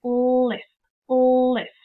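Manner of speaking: "List, list" said twice, slow and clear; word said twice for students. Shown as a demonstration. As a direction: model the word "list" for the class. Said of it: "And I would say".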